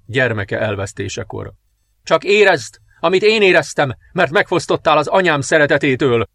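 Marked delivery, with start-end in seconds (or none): 2.0-6.3 higher, louder cry of revenge; vengeful shout. Acted. Princess shouts her revenge over the dying king, raised voice. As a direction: hurl your grief at him. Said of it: "kiáltotta a bosszú kielégülésében".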